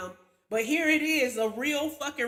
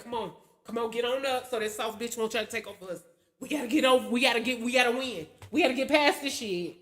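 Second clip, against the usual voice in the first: pumping herself up; 2 semitones lower, faster than usual. Retold or imitated. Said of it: "I be ready, like".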